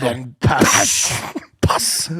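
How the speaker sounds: short mimicry of a Northern Irish accent; put-on Northern Irish accent. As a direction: imitate her Northern Irish accent on the word. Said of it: "What accent is that?".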